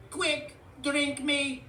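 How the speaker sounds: high, loud, drawn-out demand; high-pitched pleading toy; urgent juice box robot. A narrator's reading. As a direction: beg loudly in a high robot voice.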